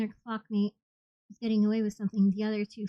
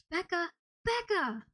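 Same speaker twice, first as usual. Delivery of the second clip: calling out; 9 semitones higher, 4 dB quieter, slower than usual. A narrator's reading. Friend calling from stairs.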